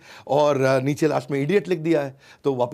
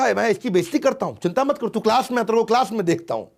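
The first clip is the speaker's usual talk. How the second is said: higher and louder threat; professor's threat; 8 semitones higher, 4 dB louder than usual. Retold or imitated. Humiliated professor vows revenge, higher and louder. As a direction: hiss a promise of revenge.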